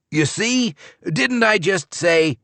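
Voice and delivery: high, exasperated I-told-you-so; exasperated scolding. Acted. Mother scolding child over dropped chicken.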